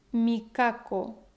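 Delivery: Mikako slowly, mi-KA-ko; stress on penultimate syllable. Shown as a demonstration. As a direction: stretch the KA of Mikako. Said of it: "poner el acento en la penúltima sílaba".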